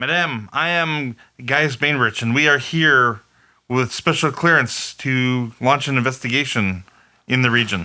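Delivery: loud call carrying over a long distance.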